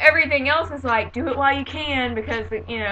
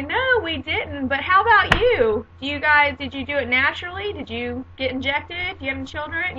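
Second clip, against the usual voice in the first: higher-pitched, pointed turnabout questions; mock nosiness; 4 semitones higher than usual. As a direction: pretend keen interest, turning the prying back. Acted nosy comeback to a stranger.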